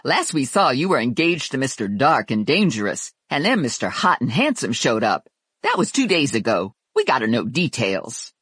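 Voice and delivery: brash sassy coworker; Lula voice. Acted. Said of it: "Lula said".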